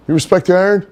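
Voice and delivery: cocky wrestler dude-bro greeting, high and loud; Johnny's bro voice. Retold or imitated. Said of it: "that's how he would talk".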